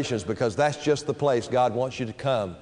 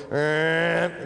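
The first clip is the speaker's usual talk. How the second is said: machine noise. Retold or imitated. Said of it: "then you hear it go".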